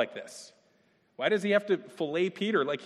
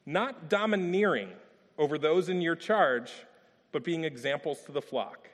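measured, solemn reading of Scripture. Acted. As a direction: read it like the verse carries weight. Reads First Peter aloud.

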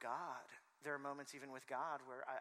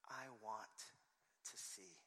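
hushed, halting request; quiet plea; 2 semitones lower, 10 dB quieter, slower than usual. Acted. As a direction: say it softly, phrase by phrase. Voicing blind man's plea to Jesus.

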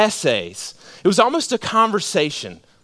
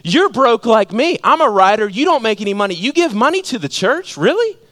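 raised, incredulous challenge; acted disbelief; 4 semitones higher, 4 dB louder than usual. Writer questions his broke friend's giving, acted disbelief. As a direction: act out a baffled friend, climbing to a high question.

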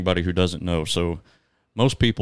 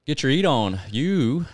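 excited; 7 semitones higher, 4 dB louder, slower than usual. Real, not acted. Teasing about food.

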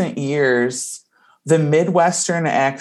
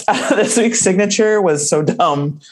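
Ross impression; 5 semitones higher than usual. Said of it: "I will do him now for you".

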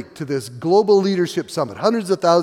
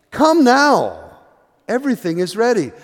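louder, higher summons; urgent call; 6 semitones higher, 4 dB louder than usual. Acted. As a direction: call them in like a host at the door. The host's call in parable.

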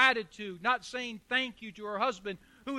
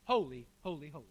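awed reverence; 6 semitones lower, 4 dB quieter, faster than usual. Retold or imitated. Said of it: "all he could say".

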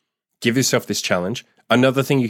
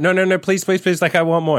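much higher mock pleading girl; pleading woman; 10 semitones higher than usual. Girlfriend begging her partner to continue, mock pleading. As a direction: imitate her begging for more. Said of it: "almost like they're pleading".

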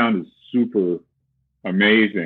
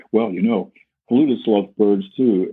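light, floating reply; 3 semitones higher than usual. Retold or imitated. Flutist to the bird puppet, lightly lifted and airy. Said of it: "talking to this puppet".

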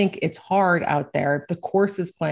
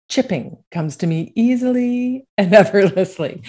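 laughing; 4 semitones higher, 4 dB louder than usual. Acted. Joking affirmation after a bad shot.

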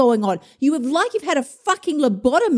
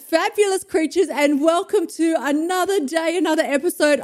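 squealy excitement; 5 semitones higher than usual. Real, not acted. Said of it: "the little bit of squealy excitement in my voice".

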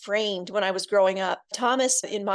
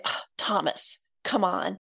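mild scolding. Retold or imitated. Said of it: "it sounded like a scolding".

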